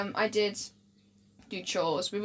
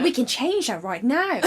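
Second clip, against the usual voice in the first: put-on lightly done generic British accent; 3 semitones higher than usual. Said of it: "like, ultimate British".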